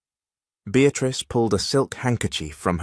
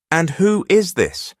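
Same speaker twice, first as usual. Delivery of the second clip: icy; 10 semitones higher, 5 dB louder than usual. Acted. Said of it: "her voice dropping into a sharp, icy blade".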